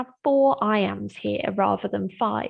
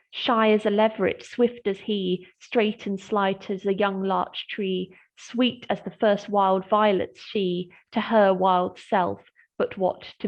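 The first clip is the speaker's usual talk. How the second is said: poem reading. Shown as a demonstration. Reads fourth stanza aloud.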